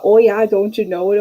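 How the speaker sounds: put-on Minnesotan lilt; mock Minnesota accent. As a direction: slip into a folksy Minnesota accent. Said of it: "visit my friends in Minnesota".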